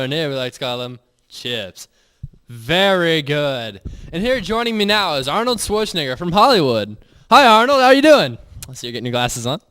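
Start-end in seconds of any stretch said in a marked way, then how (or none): 2.5-3.8 slow savoring. Acted. Savoring steak in mock ad. 7.3-8.4 loud, high, gushing hello; excited greeting. Acted. Greeting a celebrity guest.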